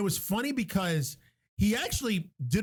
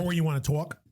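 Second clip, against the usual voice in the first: "talk" as New York "tawk"; New York accent; 2 semitones lower than usual. Acted. Friend teasing with more examples, imitated New York accent. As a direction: round out the vowel in "talk", New York style. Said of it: "becomes a coffee shop".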